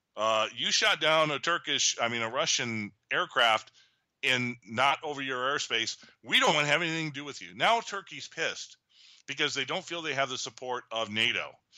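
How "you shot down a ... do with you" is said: ordinary delivery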